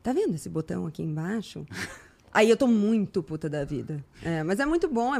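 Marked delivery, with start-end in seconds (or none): 0.0-1.6 much softer, low and icy calm; cold, restrained menace; quietly furious. Retold or imitated. Woman warning a stranger online, quiet and icy. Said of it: "se eu falar com você assim".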